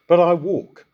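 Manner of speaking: "walk" given firm emphasis; stress on walk. Shown as a demonstration. Preacher explaining a verse to listeners, stressing "walk". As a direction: lean on the word "walk". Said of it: "put the focus on the word walk".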